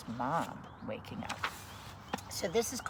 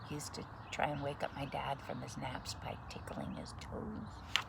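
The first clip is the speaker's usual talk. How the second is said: whispering; 7 dB quieter than usual. Real, not acted. Aside about dad.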